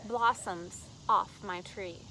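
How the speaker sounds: slow, deliberate recital; poetry reading. Acted. Poet reads The Men I Love, slow deliberate recital. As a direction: let each short phrase stand alone, slowly.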